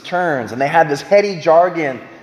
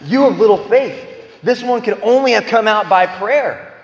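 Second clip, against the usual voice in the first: challenging rebuke; 5 semitones higher than usual. Retold or imitated. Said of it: "And he challenges them".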